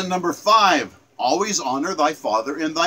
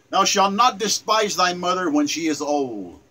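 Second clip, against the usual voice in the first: scripture quote. Shown as a demonstration. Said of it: "Let me run that up by you again".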